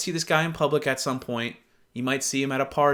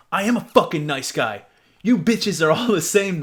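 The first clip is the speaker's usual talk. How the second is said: mock angry guy; 5 dB louder than usual. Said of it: "Here he goes".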